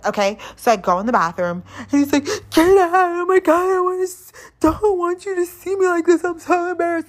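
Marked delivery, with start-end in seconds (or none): 2.5-7.1 put-on much higher and louder, a whining, flustered drunk guy; whiny embarrassed guy. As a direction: squeal it like a mortified drunk date begging her to leave. Drunk date embarrassed in bathroom.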